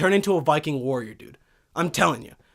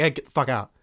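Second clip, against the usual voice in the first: Viking voice; 7 semitones lower, 6 dB quieter, faster than usual. Pretend. Viking kicks family out.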